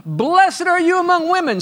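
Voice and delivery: joyful preacher holler. Retold or imitated. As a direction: holler it out like Elizabeth filled with joy. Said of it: "and then she hollers out".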